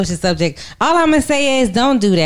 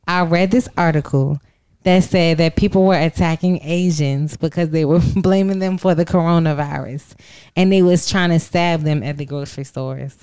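low, steady, serious tone; deep firm voice; 3 semitones lower than usual. Real, not acted. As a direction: drop into a sober serious voice. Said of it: "my serious voice".

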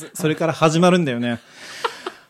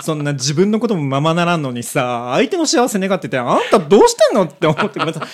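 speeding up, louder, heated; fast excited rant; 3 dB louder than usual. Real, not acted. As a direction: rattle it off, all fired up. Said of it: "上がってる上がってる".

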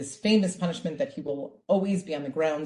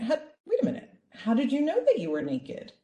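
higher, gently puzzled God; kind God; 8 semitones higher than usual. Acted. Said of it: "Still so loving and kind".

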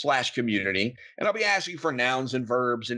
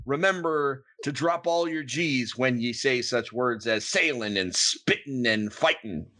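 pirate voice. Acted. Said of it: "that was a pretty convincing pirate".

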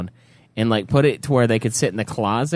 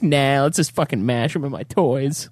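mock exasperated rant; 11 semitones higher than usual. Continues rant.

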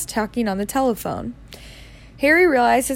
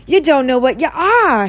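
bewildered Hagrid; 4 semitones higher, 5 dB louder than usual. A narrator's reading.

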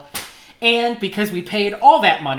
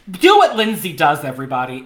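put-on strut it out like a know-it-all girl; imitating girl's attitude; 6 dB louder than usual. Little girl bossing runway class, mock attitude. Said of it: "a whole bunch of attitude that she".

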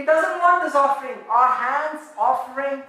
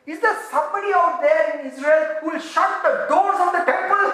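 voicing God; 4 semitones higher, 5 dB louder than usual. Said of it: "He's saying".

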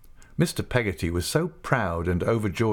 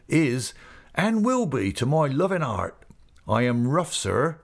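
heartfelt rustic speech, pitch often lifted; Mister Peggotty, earnest; 5 semitones higher than usual. Acted. Uncle telling guests what Em'ly means to him, earnest rustic voice. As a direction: plead the depth of feeling in dialect.

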